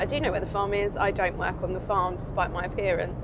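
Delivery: lightly hammed-up Somerset yokel; Somerset accent. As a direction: answer in a low, put-on Somerset accent. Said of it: "Shall I do another accent?".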